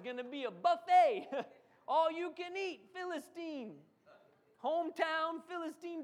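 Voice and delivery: hey you over there, loud; taunting the whole army; calling out. Acted. David calling out Philistines.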